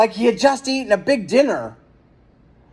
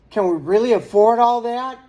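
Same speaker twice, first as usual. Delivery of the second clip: worried wife; 4 semitones higher than usual. A narrator's reading. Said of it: "Missus Merriweather asked him".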